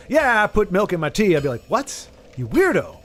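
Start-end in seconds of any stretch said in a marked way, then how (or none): 0.1-1.4 everyday American accent, casually acted. American admitting a tea habit, casual American accent. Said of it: "as an American, if I were to say". 1.7-3.0 incredulous mock reaction, pitch jumping up then dropping; mock disbelief. American judging a friend's tea habit, mock disbelief.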